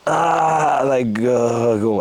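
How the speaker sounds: rhythmic performance-poet delivery, voicing his stoned mates; spoken-word poem. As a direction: bring the stoner scene to life line by line. Performs a poem about smoking dope.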